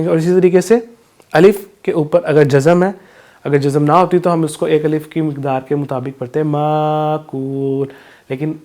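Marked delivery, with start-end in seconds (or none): 6.5-7.9 مَأْکُول with a sharp stop on the hamza, slow; glottal jerk. Shown as a demonstration. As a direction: break مَأْکُول with a jolt at the hamza. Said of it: "جھٹکا دے کر پڑھتے ہیں".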